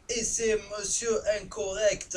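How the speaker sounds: slow, high, loud announcer-style intro; big drawn-out presenter flourish; showy self-introduction. Pretend. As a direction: announce your own name like a show host, stretched out. Introducing himself by his channel name.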